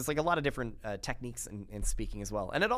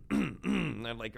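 throat clearing. Shown as a demonstration. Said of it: "we all kinda go like".

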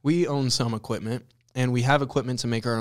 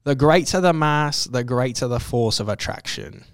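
mock British accent; 4 dB louder than usual. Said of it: "some whack-ass Sir Isaac Newton quote".

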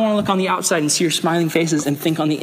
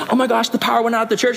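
fast, raised mock panic; 6 semitones higher, much faster than usual. Pastor retelling the blackout, mock panicked and fast. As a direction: rattle it off like you're freaking out. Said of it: "I was like".

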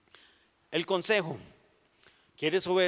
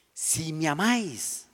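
solemn Jesus; slower than usual. Retold or imitated.

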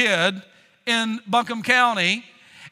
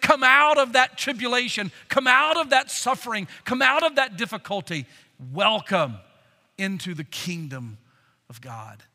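tender welcome. Shown as a demonstration. Preacher voicing Christ welcoming saints, tender fading call. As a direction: call them out of suffering, then hush. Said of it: "Here's the way to say it".

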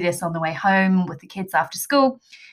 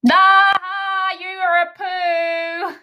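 high, indignant shriek at the pun; outraged squeal; 12 semitones higher, 4 dB louder, much slower than usual. Pretend. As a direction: squeal it like you're deeply offended. Knock knock joke punchline reaction.

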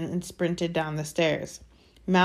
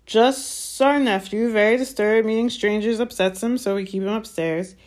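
smooth-talking uncle; 4 semitones higher, 3 dB louder than usual. Acted. Vernon glossing over to guests.

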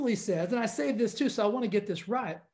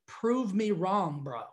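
mock tough guy; 4 semitones lower, slower than usual. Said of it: "or told somebody".

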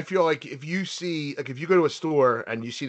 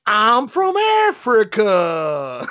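child's attempt at an African accent; 6 semitones higher, 5 dB louder, much slower than usual. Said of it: "she thinks she does an accent from Africa".

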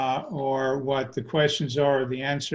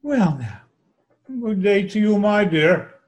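put-on Kuthumi, Indian accent; 4 dB louder than usual. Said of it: "in an Indian accent".

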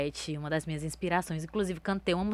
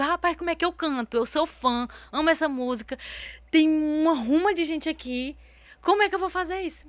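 flustered panic; 8 semitones higher, 4 dB louder than usual. Retold or imitated. Acts out her panicked thoughts on stage.

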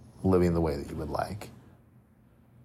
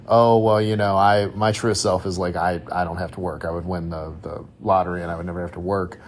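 mildly sarcastic; 2 semitones lower than usual. Acted. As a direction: lightly put on a sarcastic comeback. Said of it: "is something sarcastic, like".

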